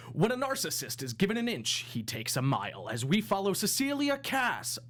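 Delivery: dramatic trailer narrator, big pauses; movie announcer voice. Acted. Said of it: "That was the best movie announcer voice I've ever heard".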